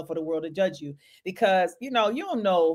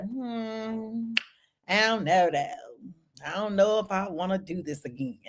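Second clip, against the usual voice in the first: doubtful hesitation; 6 dB quieter, slower than usual. Retold or imitated. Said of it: "people like".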